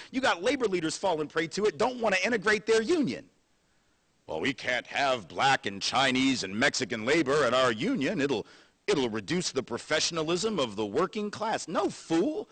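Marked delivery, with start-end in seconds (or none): 4.3-11.7 mock union leader. Quoting union leaders mockingly. 11.7-12.5 scornful retort. Real, not acted. Speaker retorts to quoted leaders.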